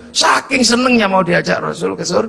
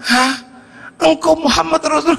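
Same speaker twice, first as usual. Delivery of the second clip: stunned surprise; 7 semitones higher than usual. Retold or imitated. Villager realizes it is the Prophet.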